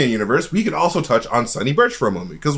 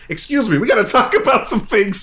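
higher-pitched mock TV confronter; Chris Hansen; 9 semitones higher than usual. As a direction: confront him as a predator-catching host, half laughing. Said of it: "Chris Hansen's gonna be waiting for him".

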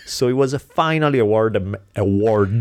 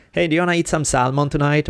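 higher, quick, eager offer; retold casual invitation; 6 semitones higher, faster than usual. Speaker re-enacting asking someone to dinner, casual. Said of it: "where I go like".

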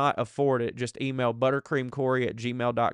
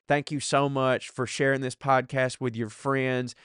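ordinary talk, nothing marked

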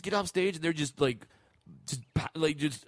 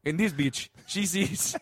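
put-on African accent; 4 semitones lower than usual. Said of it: "doing African accent".

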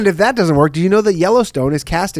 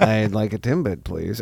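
commercial read; 7 semitones lower, 7 dB quieter than usual. Retold or imitated. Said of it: "It honestly was something like that".

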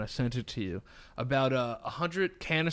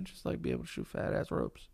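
whispering; 10 dB quieter than usual. Real, not acted. Wishful confession.

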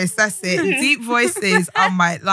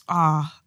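low ad-lib "ah"; imitated male "ah"; 6 semitones lower than usual. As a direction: drop a low "ah" like an attractive man. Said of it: "There's an ad lib that good looking men".

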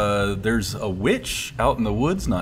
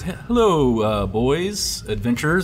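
flirty barmaid; 3 semitones higher than usual. Acted. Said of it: "puts her hands on both of your shoulders and goes".

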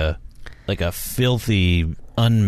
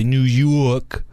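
mock New York accent; 3 semitones higher than usual. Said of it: "you're not good at accents".

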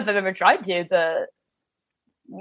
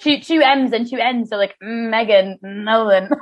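robot voice; slower than usual. Pretend. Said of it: "like a Jewish robot".

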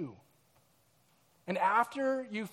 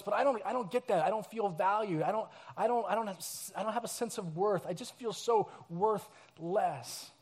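a touch of insecurity; 5 dB quieter than usual. Pretend. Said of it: "Some of us just feel like we don't deserve".

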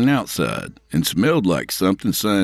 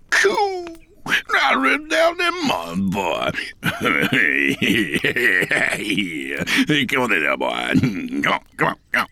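a giddy yurt dweller beckoning them in; excited hermit; 3 semitones higher than usual. Acted. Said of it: "The man's eyes lit up".

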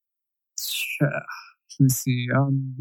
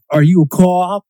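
mock Boston accent, higher pitch; 4 semitones higher, 4 dB louder than usual. Friend quoting The Departed, mock Boston accent. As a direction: imitate a Boston movie line. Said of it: "What they say with that accent".

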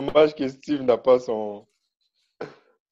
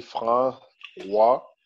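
slow drawn-out reading. Shown as a demonstration. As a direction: slowly spell out François. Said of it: "reading caption slowly".

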